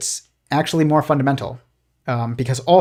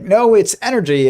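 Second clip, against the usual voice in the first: higher squeaky cartoon bickering; arguing cartoon physicist; 7 semitones higher, 5 dB louder than usual. Cartoon physicist arguing with another, higher insistent voice. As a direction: play a cartoon scientist insisting, pitched up. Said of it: "he's like".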